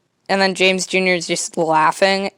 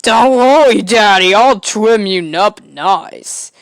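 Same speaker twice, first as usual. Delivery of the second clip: put-on kid voice; 3 semitones higher, 6 dB louder, slower than usual. Kid reassures dad with scissors.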